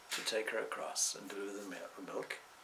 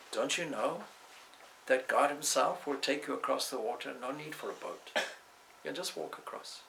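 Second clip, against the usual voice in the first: lightly voiced haughty priest, raised pitch, preachy; lecturing pundit; 3 semitones higher than usual. Pundit lecturing the milkmaid on chanting God's name, preachy. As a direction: lecture her like a superior scholar, mildly mocking.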